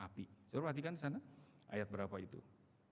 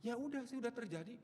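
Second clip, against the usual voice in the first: higher, resigned guilty voice; the guilty one; 12 semitones higher than usual. Retold or imitated. Preacher voicing the one at fault, higher and resigned. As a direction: shrug it off as the one who wronged. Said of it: "yang nomor pertama".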